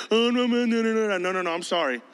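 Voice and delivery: babbled string of feeble excuses; lightly mocking reluctant protest; mock excuse-making. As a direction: imitate someone backing out, trailing down. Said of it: "don't give me your personality excuses".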